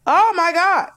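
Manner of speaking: loud, high oh my God; exclaiming. Real, not acted. Co-host recalling how the piercing hurt, loud high exclaim. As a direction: burst out at the memory of the pain.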